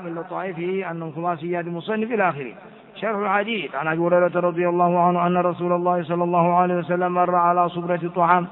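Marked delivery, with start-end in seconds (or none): 3.7-8.5 level, evenly pitched recital; measured monotone reading of scripture; hadith text reading. Acted. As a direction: read the text formally on one steady tone. Reads the hadith text aloud.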